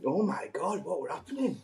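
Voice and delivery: high laughing disbelief. Real, not acted. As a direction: laugh out the words. Laughing at light bulb joke.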